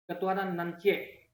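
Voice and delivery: light Minang accent, "nan cie"; Minang dialect. Shown as a demonstration. Teacher demonstrating another regional wording of Pancasila, Minang dialect. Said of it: "logat Minang misalnya".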